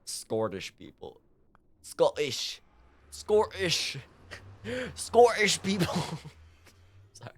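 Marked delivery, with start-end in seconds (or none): 0.1-5.9 "Scottish" drawn into a silly "Scor-ish"; playful mispronunciation. Pretend. Streamer mocking own slip on Scottish, playful mispronunciation. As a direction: toy with "Scottish" as "Scor-dish", dropping into giggles.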